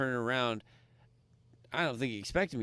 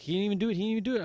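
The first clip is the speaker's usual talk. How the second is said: pitched way up and loud, repeating himself; high insistent yell; 10 semitones higher, 6 dB louder, much faster than usual. Retold or imitated. Cousin protests to the bouncer, high insistent yell. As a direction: insist over and over, voice cracking high.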